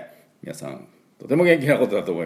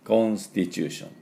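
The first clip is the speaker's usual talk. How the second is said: Japanese-accented katakana English; English word in flat Japanese katakana sounds. Shown as a demonstration. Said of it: "ちょっとカタカナ英語でいきますと".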